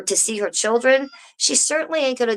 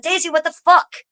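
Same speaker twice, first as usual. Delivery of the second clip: mock incredulous; 10 semitones higher than usual. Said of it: "And then John Allgood said".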